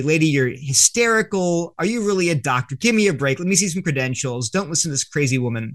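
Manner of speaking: acted scepticism, brushing someone off; dismissive disbelief. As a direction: lightly act out a crowd that won't have it. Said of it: "the crowd just is not having this".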